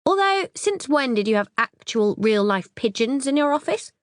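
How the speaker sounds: a hint of the scatty younger sister; sister's voice. Sister Claire's chatter.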